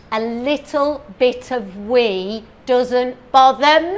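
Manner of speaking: slow, lightly voiced mock advert lady. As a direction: purr it like a breezy TV ad. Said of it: "she says".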